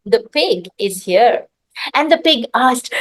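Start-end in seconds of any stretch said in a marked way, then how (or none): 0.0-1.5 calm. Acted. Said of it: "happily and calmly".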